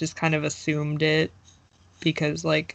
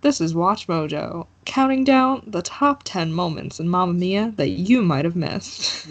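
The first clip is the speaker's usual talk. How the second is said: Watch Mojo lady voice. Pretend. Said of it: "Do the Watch Mojo lady voice".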